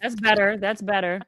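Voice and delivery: glitchy robotic phone audio; little robot voice. Real, not acted. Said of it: "You sound like a little robot".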